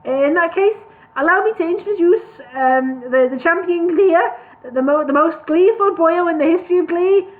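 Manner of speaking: loud, high showman introduction; grand announcer. Acted.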